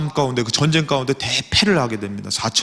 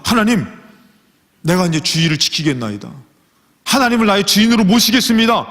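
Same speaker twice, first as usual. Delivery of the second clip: earnest vow; 5 semitones higher, 3 dB louder than usual. Acted. Acted prayer vow.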